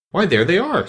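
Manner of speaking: king crowing in victory; triumphant. A narrator's reading. King shows the court the tarts, triumphant. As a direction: point and gloat. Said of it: "said the king triumphantly".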